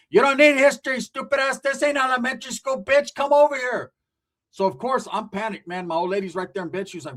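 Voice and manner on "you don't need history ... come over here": higher, sharp scolding aunt; scolding tia. Retold or imitated. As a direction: scold him like an impatient aunt.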